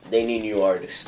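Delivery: hoarse raspy voice; smoker's voice. Real, not acted. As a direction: rasp it out like a heavy smoker. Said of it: "You sound like a smoker".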